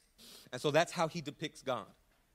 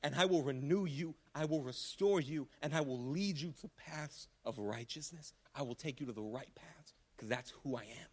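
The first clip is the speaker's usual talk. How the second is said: God's voice, gentle. Acted. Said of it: "voicing God's promise".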